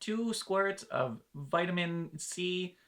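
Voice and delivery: a hint of a precious Starbucks customer; fussy coffee order. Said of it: "where it's just like".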